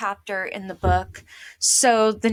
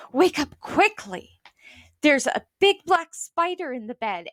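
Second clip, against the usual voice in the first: scary and urgent; 4 semitones higher than usual. Acted. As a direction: rouse her sister with mock alarm. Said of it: "making her voice scary and urgent".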